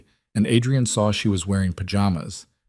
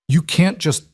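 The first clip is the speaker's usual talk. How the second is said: panicked protest; 9 semitones higher than usual. Acted. Ethan protesting at gunpoint.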